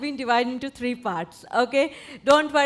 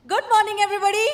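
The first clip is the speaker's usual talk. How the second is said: higher, bright energetic good morning; energetic greeting; 8 semitones higher, 3 dB louder, much faster than usual. Shown as a demonstration. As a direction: greet them with real pep. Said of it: "it should be little energetic".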